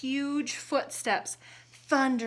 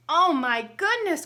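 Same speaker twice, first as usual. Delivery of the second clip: high, loud alarmed cry; 8 semitones higher, 10 dB louder than usual. Acted. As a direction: gasp it out in alarm. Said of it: "cried the giantess".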